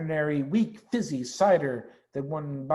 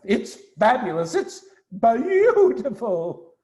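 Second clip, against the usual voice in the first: awed delight; 8 semitones higher, 6 dB louder, slower than usual. Acted. Mister Fox awed by cider.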